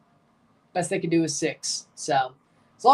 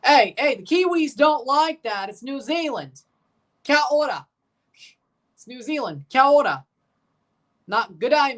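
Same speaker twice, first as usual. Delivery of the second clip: higher, half-joking outrage on behalf of the Kiwis; mock indignant; 5 semitones higher than usual. Streamer playfully scolding chat for calling New Zealand Aussie, mock indignant.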